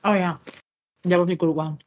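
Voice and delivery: talking with a mouth full. Real, not acted. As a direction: speak through a mouthful of chip. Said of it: "I'm having my mouth full right now with a chip".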